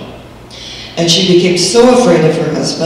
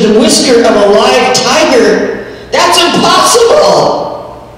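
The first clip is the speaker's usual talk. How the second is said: shocked disbelief; 7 semitones higher than usual. Acted. Yin hearing the hermit's demand.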